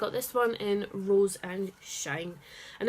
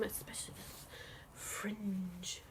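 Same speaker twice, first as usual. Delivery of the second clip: whispering; 13 dB quieter, slower than usual. Real, not acted. Showing off jacket.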